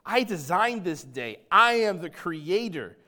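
loud, commanding declaration; sovereign proclamation. Retold or imitated. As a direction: proclaim it as the ruler of the day. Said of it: "Jesus is saying".

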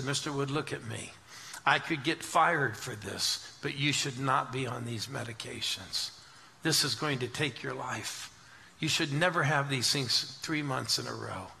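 low-key, earnest warning, slightly softened; grave retold warning. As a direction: warn them soberly, as a concerned pharmacist would.

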